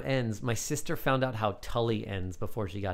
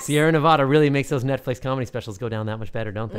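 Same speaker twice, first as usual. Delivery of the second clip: mock ad read; 8 dB louder than usual. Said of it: "That came off natural, right?".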